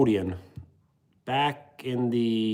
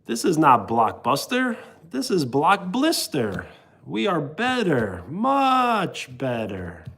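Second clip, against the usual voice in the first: quoting a TV sketch. Retold or imitated. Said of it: "It's from an old T V show called The Amanda Show".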